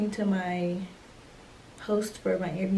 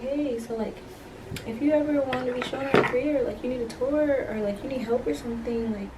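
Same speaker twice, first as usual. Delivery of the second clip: higher, eager guy offering help; lightly voiced pushy guy, pitched up; guy's eager pitch; 3 semitones higher than usual. Stranger at the airport offering a tour, eager and higher.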